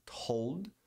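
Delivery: "Told" with a clear L; touch the palate for the L in "Told"; audible L. Shown as a demonstration. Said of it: "Dá pra ouvir o L?".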